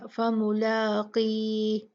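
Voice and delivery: फमुलाक़ी, slow, क़ kept heavy; heavy qaf. Shown as a demonstration. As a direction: recite फमुलाक़ी with a thick क़. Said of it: "पढ़ेंगे हम इसको भारी तरीके से ही".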